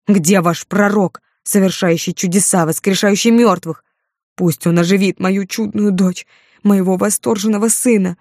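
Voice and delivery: grief-stricken rage. Acted. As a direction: rail at them in despair. Grieving father rails at disciples. (гневная тирада отца, громко)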